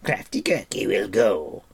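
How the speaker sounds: volunteer in a hint of creature voice; Gurki, eager. Gurki offers to search for pig, eager.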